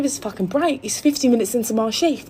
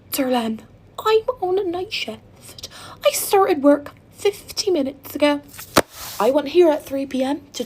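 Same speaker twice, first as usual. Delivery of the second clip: higher, slow exasperated explaining; 3 semitones higher than usual. Retold or imitated. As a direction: spell it out slowly, fed up.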